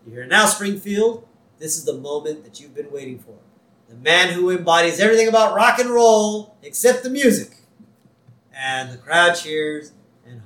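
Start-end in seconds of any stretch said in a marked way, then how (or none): 0.2-7.5 lightly voiced emcee build-up; announcer. Emcee introducing Homer to the crowd, announcer style. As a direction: introduce the act, lifting toward the end. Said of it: "the announcer, the M C".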